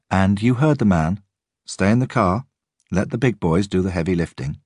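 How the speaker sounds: teasing, playing to the gallery; a little smile in the voice; amused. A narrator's reading. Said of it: "a little smile in her voice as she played to the gallery".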